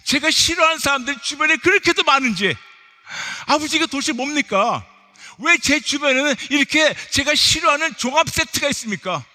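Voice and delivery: loud, high exasperated pulpit delivery; exasperated preaching rant. Acted. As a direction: pile up the grievances with full preaching force. Preaches a mounting list of grievances.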